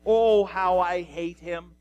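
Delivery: loud, emphatic loathing; dramatized outburst of dislike; acted hatred. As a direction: lean hard into the opening Oh. Ahab voicing hatred of prophet.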